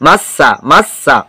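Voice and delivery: মাস্সা with a short, firm double স; no lingering on the স of মাস্সা; doubled consonant unheld. Shown as a demonstration. Teacher showing the right way, মাস্সা with স not prolonged. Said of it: "এখানে আর বলি নাই মাস".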